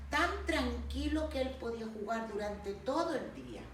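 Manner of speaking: narración pausada y expresiva de cuento; cuento infantil. Acted. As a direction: cuenta el cuento a los pequeños, animando las frases. (narración de cuento para niños)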